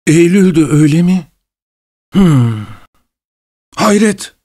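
a high, astonished cry that climbs to the last word; surprised exclaiming. A narrator's reading. Pavel exclaims in growing surprise at the guest's date, high astonished cry. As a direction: act caught off guard and amazed. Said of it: "diye bağırdı Pavel Pavlovich daha çok şaşırarak".

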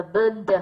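burned, the -ed sounded as d; final D in burned. Shown as a demonstration. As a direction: say burned ending in a voiced "d". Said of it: "E D được đọc thành âm D". (đọc burned kết thúc bằng âm D)

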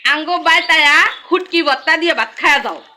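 inviting someone to eat in Mymensingh village speech; Mymensingh dialect. Shown as a demonstration. Inviting a guest to eat in Mymensingh dialect. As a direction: make the invitation sound like home. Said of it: "আঞ্চলিক ভাষায় কি হবে".

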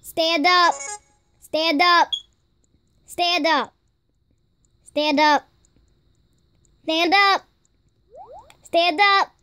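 repeated firm command to a pet dog. Shown as a demonstration. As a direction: call it out clearly, like a dog trainer. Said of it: "That's how I say it".

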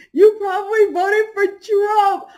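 high, slow, mocking echo; slow mocking repeat. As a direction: drag the insult out slowly. Repeats insult, slower.

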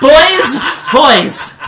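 high, loud mock shout; playful, hammed-up holler; calling out. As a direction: break up the squabble with a yell. Breaking up a fight over Lucky.

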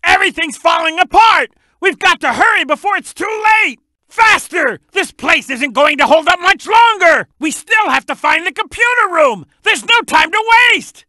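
high-pitched, urgent warning; urgent shout. Acted. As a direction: shout to hurry everyone along. Urging haste as place collapses.

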